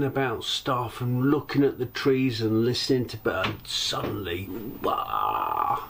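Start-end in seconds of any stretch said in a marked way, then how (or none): 4.8-5.8 drawn-out "wah" of shock; startled cry. Retold or imitated. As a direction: imitate a jolt of fright. God, it didn't half make me jump.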